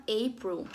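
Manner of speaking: April said slowly with an English ei. Shown as a demonstration. Teacher to her class, saying April slowly in English. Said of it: "em inglês, se chama".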